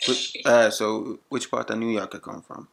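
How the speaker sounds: thick Jamaican patois; put-on Jamaican accent. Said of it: "used my Jamaican accent".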